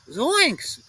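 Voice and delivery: high startled cry; Shaggy's high panicked exclamation; cried out. Acted. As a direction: yelp it out in fright. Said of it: "cried Shaggy".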